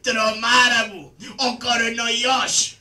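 slow, whining fake sob; mock whimper. Karagiozis whimpering to Hatzatzaris in mock terror. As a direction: whimper in comic fright. Frightened after seeing the virus.

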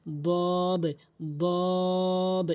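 দদ held long and even; heavy dad. Shown as a demonstration. Teacher demonstrates the letter, long heavy দদ. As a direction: side of the tongue against upper gums on দদ. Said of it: "এভাবে উচ্চারণ করবেন".

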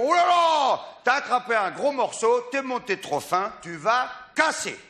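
mock alarm from the fishing buddies; friends exclaiming. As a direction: exclaim like pals warning an angler. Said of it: "Tous mes copains me font".

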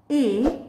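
"a" said eh, as in elbow; short E sound. Shown as a demonstration. Teacher revises short vowels with learners, "a" said eh. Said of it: "The short sound of E".

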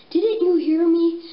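loud story-character question. Acted. Acted quote in the story.

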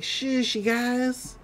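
soft, hushed shush. Retold or imitated. Stan quieting the chimes, soft. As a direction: hush the wind chimes gently.

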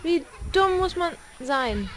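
slow, drawn-out disbelief, leaning on dumm; slow repeat. Real, not acted. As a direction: repeat it slowly, stressing dumm. Repeats slower, stressing dumm.

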